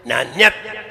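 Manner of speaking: नान्यत्र with weight on अत्र; stress on अत्र. Shown as a demonstration. Teacher shows where stress falls, stress on अत्र. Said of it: "यानी अत्र पे जोर देना है".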